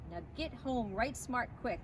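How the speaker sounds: mock stern. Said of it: "trying to sound very stern".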